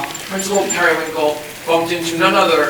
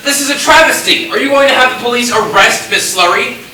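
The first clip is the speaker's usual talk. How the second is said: outraged; 4 semitones higher than usual. Real, not acted. Outraged playwright.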